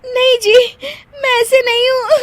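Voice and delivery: laughing cry of denial; wife protesting through laughter. Acted. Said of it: "क्यों हंस रही थी तुम".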